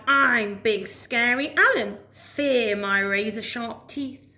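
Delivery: slow, boastful monster voice; mock scary alligator. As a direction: puff up and try to sound fearsome. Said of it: "He said things like".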